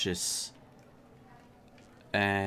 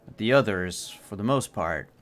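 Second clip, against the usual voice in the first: measured narration, phrases left hanging; storyteller unveiling the scene piece by piece; game master's scene setting. A narrator's reading. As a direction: describe the scene with deliberate pauses.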